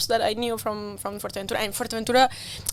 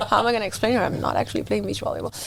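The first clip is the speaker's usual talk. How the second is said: laughing panic; faster than usual. Retold or imitated.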